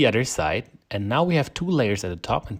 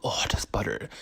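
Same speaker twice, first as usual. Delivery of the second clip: whisper. Real, not acted. Whispering over the butter.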